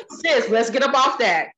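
light laugh through the line. Retold or imitated. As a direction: coax a friend while laughing. Voicing her sister's pep talk.

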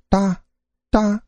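short, separated clacking sounds; wooden clog taps. A narrator's reading. Clogs approaching along the corridor, short clacks. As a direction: imitate clogs striking the floor. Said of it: "一阵木屐击地的声音".

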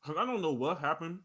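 talking while eating; words round a bite of food; mouth full. Real, not acted. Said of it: "As you over there eating a big ass sandwich".

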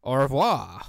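loud, hammed-up French farewell; mock French. Podcaster ending French dub bit, loud mock French accent. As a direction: sign off as a cartoon Frenchman. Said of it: "with a French accent in English".

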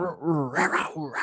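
a growly panther sound; panther noise. Acted. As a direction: make a big cat noise. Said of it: "that's my Panther noise".

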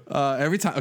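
giggling through the words; can't stop laughing. Real, not acted. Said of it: "laughing while speaking".

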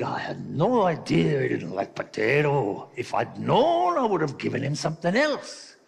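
lightly voiced Irish widow, rising in pitch; a touch of hammed-up regret; Irishman's wife. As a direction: lament it as a mock Irish wife. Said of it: "The Irishman's wife said".

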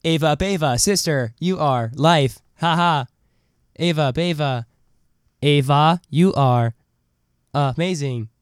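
stilted assistant voice in separate chunks; Siri. Acted. Siri praising Ava, stilted robotic imitation. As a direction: lightly imitate a machine, pausing between phrases. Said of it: "This is Siri".

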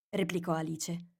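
ordinary delivery, nothing marked

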